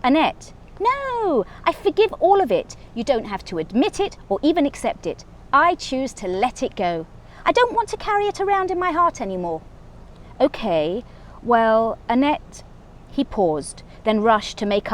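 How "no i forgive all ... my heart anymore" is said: high, serene forgiving voice; hammed-up saintly forgiveness, pitched up; lofty forgiveness. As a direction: rise above it all, sweetly. Annette forgiving everything.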